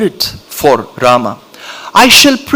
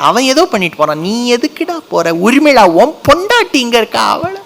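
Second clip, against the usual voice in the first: typical scolding mother; 5 semitones higher, much faster than usual. Pretend. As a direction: rattle off a mother's nagging. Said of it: "That's a typical mentality".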